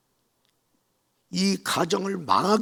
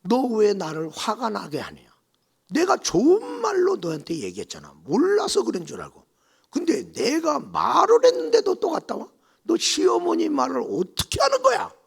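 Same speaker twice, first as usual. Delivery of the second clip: higher, louder furious mother-in-law; angry scolding; 10 semitones higher, 7 dB louder than usual. Retold or imitated. Mother-in-law scolding her daughter-in-law, angrily.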